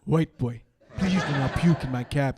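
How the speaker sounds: imitated African accent, measured plea; cab driver's African accent. African cab driver begging drunk passenger not to puke, accented plea. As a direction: plead firmly in an African accent. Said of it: "says a big word in a funny accent".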